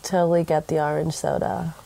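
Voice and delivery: thin headphone mic sound; talking through a headphone mic. Real, not acted. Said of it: "I'm using my headphone mic and my voice sounds".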